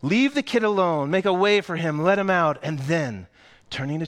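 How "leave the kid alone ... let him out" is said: higher, louder firm command; shopkeeper commanding. Acted. Shopkeeper orders the crowd away from Charlie, firmly. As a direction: clear the crowd off the boy. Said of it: "said the shopkeeper".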